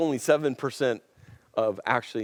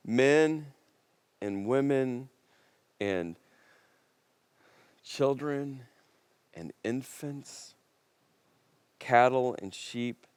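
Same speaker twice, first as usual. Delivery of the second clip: grave scripture reading. Acted. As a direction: read it with heavy pauses, letting each item land. Reading a disturbing scripture command.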